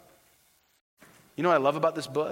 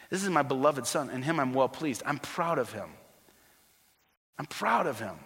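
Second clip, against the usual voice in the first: soft, lower, affectionate declaration; tender fatherly pride; 3 semitones lower, 5 dB quieter than usual. Acted. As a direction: speak softly as a proud father. Voicing God the proud Father.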